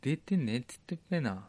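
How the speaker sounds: a joking Ibaraki dialect with ぺ endings. Pretend. Host denying it in a mock Ibaraki dialect. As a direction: tease in a broad Ibaraki dialect. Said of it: "それ茨城弁じゃん".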